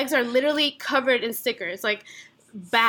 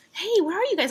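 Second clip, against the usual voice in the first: chill; super calm; 7 semitones higher than usual. Retold or imitated. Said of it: "Like, super calm, chill".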